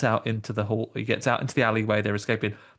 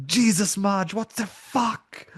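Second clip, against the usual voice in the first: put-on slow Austrian Schwarzenegger accent; Arnie's Austrian accent, slow; Arnie impression; 9 semitones higher, slower than usual. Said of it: "Pretty good Arnie".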